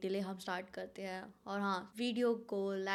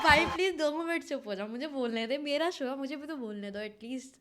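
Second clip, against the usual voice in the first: loud pleading; 3 semitones higher, 4 dB louder than usual. Retold or imitated. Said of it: "मैं बोला".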